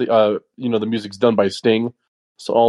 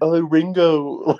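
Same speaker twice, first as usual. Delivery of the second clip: mock a singer; 4 semitones higher, much slower than usual. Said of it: "turning into a singer".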